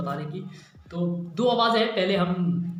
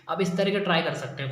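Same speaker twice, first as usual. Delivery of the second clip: ordinary delivery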